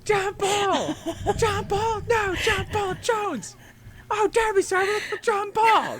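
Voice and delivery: very high squeal calling across the water; squeaky meme voice. Retold or imitated. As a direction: play the meme captain, squealing. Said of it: "you're just picturing".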